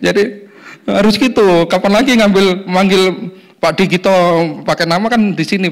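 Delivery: high, loud, laughing joke. Real, not acted. Preacher teasing the congregation from the pulpit, laughing.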